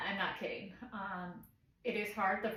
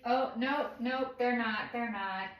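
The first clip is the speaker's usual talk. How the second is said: mock alarm; 3 semitones higher, 3 dB louder than usual. Acted setback as baby wakes.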